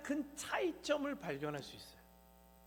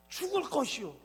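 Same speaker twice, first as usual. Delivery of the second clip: normal talking voice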